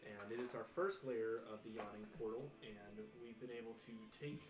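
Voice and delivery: dramatic show-host intro; announcer. Acted. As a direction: build up the finale. Host opens the season finale.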